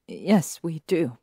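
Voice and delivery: nervous. Acted. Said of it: "replied nervously".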